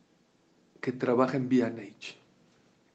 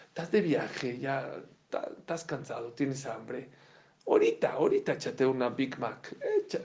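coaxing tempter voice. Acted. Preacher voicing the tempter to a tired traveler, sly and laughing. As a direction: tempt him toward the Big Mac. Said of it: "tempter voice".

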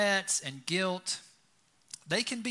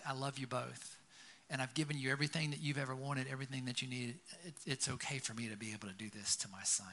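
softer, tender reply; gentle father; 2 semitones lower, 7 dB quieter than usual. Retold or imitated. Father soothes his resentful older son, softly tender. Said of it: "the father's like".

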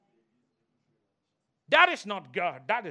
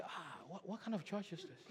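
mock puzzled; 11 dB quieter than usual. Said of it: "they say".

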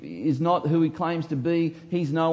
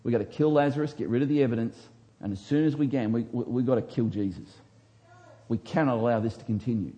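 scheming Pharisees; 3 semitones lower, faster than usual. Pretend. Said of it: "what did the scribes think".

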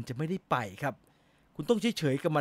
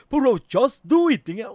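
higher, louder mock-suave announcer voice; playful imitation of a dreamy voiceover; the speaker's handsome voice; 7 semitones higher, 8 dB louder, slower than usual. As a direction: ham up a handsome smooth presenter. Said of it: "เสียงแชมป์เสียงหล่อ".

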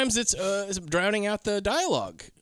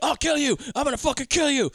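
higher, mildly raised mock yell; mock threat; 9 semitones higher than usual. Pimp threatening a player who blocked his shot, mock angry. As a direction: threaten him, half-hearted. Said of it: "and he's like".

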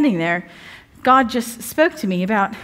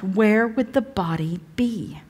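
whisper; 3 dB quieter, slower than usual. Acted. Rhetorical line in scripture reading.

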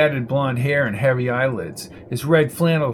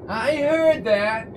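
higher, slow sing-song retort; Rita calling out; 9 semitones higher, slower than usual. A narrator's reading. Rita calling from a back bedroom, sing-song. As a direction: call it drawn out from another room.

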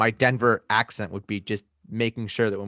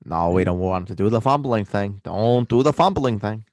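put-on mixed American accent; muddled regional accent. Rating running backs for co-host, mixed accent. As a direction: rate players in a hammy regional accent. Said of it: "tell where your accent's from anymore".

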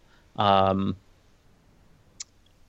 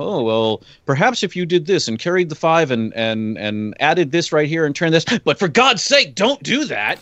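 lightly voiced Doctor. Host imitating the Doctor advising others, lightly acted, ending in urgent warning. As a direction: lightly imitate a musing adviser who suddenly warns. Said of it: "every now and then he would be like".

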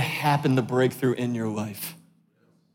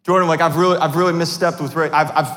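proper confession. Retold or imitated. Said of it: "the way that I probably should say it".

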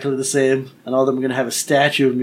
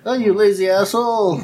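scornful retort; 7 semitones higher, 4 dB louder than usual. Retold or imitated. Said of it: "And you're like".

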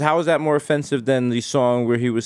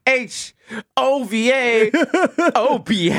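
Jay-Z; 11 semitones higher, much slower than usual. Retold or imitated. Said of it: "He was like".

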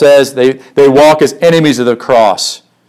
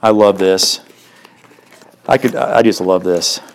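quiet delight; 6 semitones lower, 5 dB quieter than usual. Real, not acted. Preacher savoring psalm aside.

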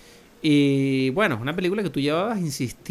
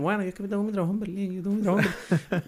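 rapid, higher-pitched mock excuse; mocking imitation; 5 semitones higher, faster than usual. Host teasing co-host about his Berlin job, mocking imitation. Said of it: "tú eres el que está aquí como".

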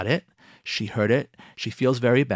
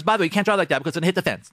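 blunt criticism; 2 semitones higher, much faster than usual. Retold or imitated. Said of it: "the second thing you have to say to her is".

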